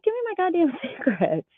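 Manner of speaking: high-pitched exasperated demand; indignant, high, with a touch of laughter; retold pissed-off demand. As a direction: re-enact demanding what is yours, half amused. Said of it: "I was pissed".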